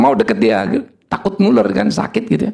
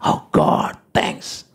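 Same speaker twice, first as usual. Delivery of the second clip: hushed, whispery drop; acted weary thanks; 4 dB quieter, much slower than usual. Preacher acting a worn-out carer thanking God, hushed. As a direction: let it fall away into a soft whisper.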